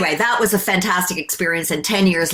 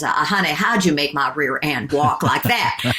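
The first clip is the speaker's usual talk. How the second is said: lightly Southern, lower-pitched honey; Southern accent; 4 semitones lower than usual. Retold or imitated. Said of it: "who was Southern accent Mouse".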